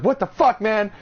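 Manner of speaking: hammed-up freaked-out cry; paranoid squeak. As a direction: squeal it like a scared stoner. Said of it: "I was all paranoid".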